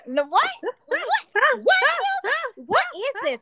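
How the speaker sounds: acted bewilderment, pitch jumping up; mock-flummoxed, stop-start questioning; baffled. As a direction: keep breaking off in disbelief. Acts out baffled reading of acronym.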